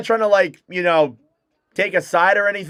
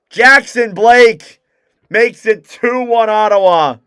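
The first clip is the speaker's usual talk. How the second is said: excited goal call; 3 semitones higher, 5 dB louder than usual. Acted. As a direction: stretch out the scorer's name. Excited goal call, wrong team.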